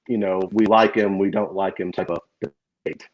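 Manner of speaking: crackling, distorted microphone; clipping distorted mic. Real, not acted. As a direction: voice breaking up through a crackly mic. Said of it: "your mic is crackling a good bit".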